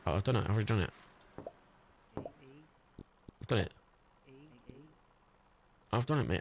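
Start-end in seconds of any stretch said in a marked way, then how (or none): 2.2-3.7 slow, soft murmur to yourself; slow soft aside. Pretend. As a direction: breathe the line out slowly. Soft slow repeat of the line.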